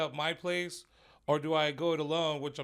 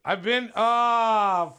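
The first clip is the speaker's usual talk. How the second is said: slow gagging strain; 7 semitones higher, 9 dB louder, much slower than usual. Real, not acted. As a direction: choke the words out while retching. Retching talk about gagging.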